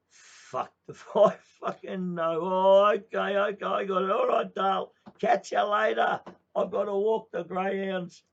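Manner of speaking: very high, very loud laughing shout; yelling wife. Retold or imitated. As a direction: holler it as she heads off. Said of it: "And she goes".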